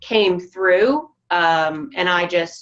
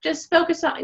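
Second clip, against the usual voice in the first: high, loud put-on cheer, a hammed-up yay; mock cheerful; 11 semitones higher, 3 dB louder than usual. Speaker mimicking the upbeat front she refuses, mock cheerful. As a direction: burst into a fake upbeat cheer, pitched way up. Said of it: "instead of be like".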